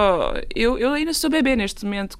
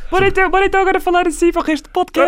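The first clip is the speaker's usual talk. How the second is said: cartoon kid voice; 8 semitones higher, 3 dB louder, much faster than usual.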